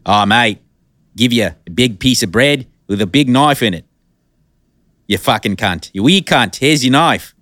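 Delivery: Australian accent swearing tirade, mock Aussie; cursing in a hammy Australian accent. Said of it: "How's that accent?".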